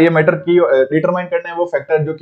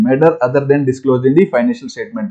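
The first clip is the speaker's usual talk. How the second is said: slow dictation; 3 semitones lower, much slower than usual. Shown as a demonstration. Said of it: "Matter other than disclosed बोला है".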